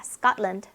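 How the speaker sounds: Scotland cut down to "SKAT-lund"; two-beat English pronunciation. Shown as a demonstration. Teacher repeating for students, Scotland in two English beats. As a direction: say Scotland with no vowel between consonants. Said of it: "거의 두 박자 안에 끝납니다".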